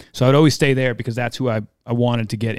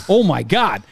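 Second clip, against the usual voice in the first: builds from excited to far higher disbelief; rising excitement; 8 semitones higher than usual. Retold or imitated. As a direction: climb higher each time. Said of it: "where I was like".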